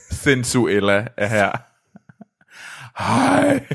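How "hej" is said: high, breathy mock seductive greeting; mock sensual hello. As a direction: coo a teasing hello. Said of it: "skal jeg prøve at være sensuel for dig?". (højt, hæst forførende hej i spøg)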